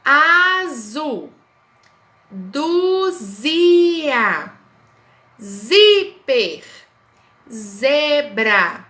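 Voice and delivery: each word said loud and clear, with pauses between; slow reading aloud. Shown as a demonstration. Teacher reading the zi words to pupils. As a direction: read each word loudly for the class. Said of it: "Vamos identificar".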